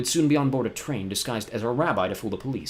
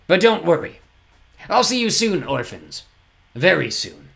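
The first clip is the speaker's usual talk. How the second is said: higher, mocking Count Olaf; taunting villain; 7 semitones higher, 7 dB louder, slower than usual. Olaf threatens the orphans, taunting. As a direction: menace behind a promise.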